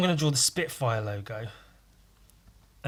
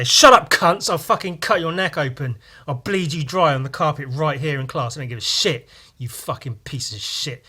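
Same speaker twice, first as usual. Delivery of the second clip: angry retort; 6 dB louder than usual. Retold or imitated. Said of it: "And then we'd say".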